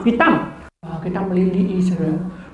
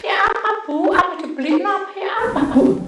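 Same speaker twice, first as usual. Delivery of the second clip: high, helpless mock fretting; imitated bewilderment; 9 semitones higher than usual. Confused caller asks what to do, imitated bewilderment. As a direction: dither in a small high voice. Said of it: "Bingung dia".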